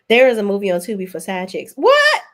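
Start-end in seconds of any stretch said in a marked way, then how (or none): 1.8-2.2 loud, high-pitched burst of disbelief; shocked what. Real, not acted. Reacting to a Tubi movie for side chicks, shocked. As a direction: blurt it out, pitch shooting up.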